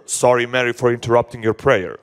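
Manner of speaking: low, subdued apology; mock apology. Imagined Jesus apologizing to Mary for interrupting, low and subdued. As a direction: apologize in a dropped, low monotone. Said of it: "He didn't rebuke her".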